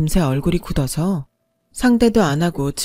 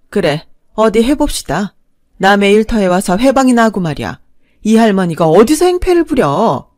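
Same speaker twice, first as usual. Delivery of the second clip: calm, steady rebuke at usual pitch; firm rebuke; 3 dB louder than usual. Retold or imitated. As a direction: put her in her place coolly. Neighbor lady confronts with police.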